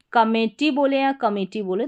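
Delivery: कमेटी with middle "ay", then with middle "i"; vary the middle vowel of कमेटी between "e" and "i"; two accepted pronunciations. Shown as a demonstration. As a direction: offer कमेटी both ways, changing only the middle vowel. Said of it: "दोनों तरीके से आप pronounce कर सकते हैं".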